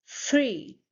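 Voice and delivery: FREE begun with a long airy th; correct pronunciation. Shown as a demonstration. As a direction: blow air through the start of FREE. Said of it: "you will say f".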